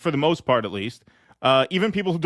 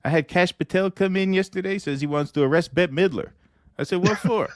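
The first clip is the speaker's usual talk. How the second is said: Donald Trump voice. Acted. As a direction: play Trump chatting up a guest, pleased with himself. Trump voice retelling Cash Patel.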